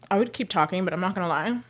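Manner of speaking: panting between words; winded from scrubbing; out of breath. Real, not acted. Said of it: "I'm panting".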